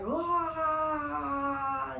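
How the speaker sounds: long drawn-out mock laugh; hammed-up villain laugh; imitated demon laugh. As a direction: stretch one held laughing wail. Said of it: "Terus ketawa".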